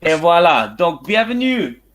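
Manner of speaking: English speaker's halting French accent; French with an English accent, hesitant; foreign accent in french. Real, not acted. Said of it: "mon français c'est un petit peu nul".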